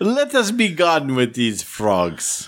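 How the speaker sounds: put-on high, swooping, sing-song Spanish accent. Voicing Gustav while another speaker comments, in a Mexican or Hispanic accent. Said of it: "I'm using a Mexican or a Hispanic accent".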